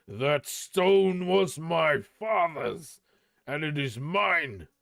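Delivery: thick with wrath, slow and heavy on the first words; a dwarf king's anger rising; wrathful. Acted. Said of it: "his voice was thick with wrath".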